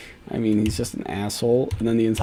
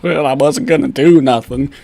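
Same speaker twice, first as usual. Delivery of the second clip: mock bad grammar; 3 semitones higher, 7 dB louder than usual. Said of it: "that's horrible English".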